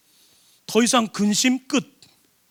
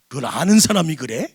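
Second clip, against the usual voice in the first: teasing question; 5 semitones lower than usual. Shown as a demonstration. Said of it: "이렇게 물어보세요".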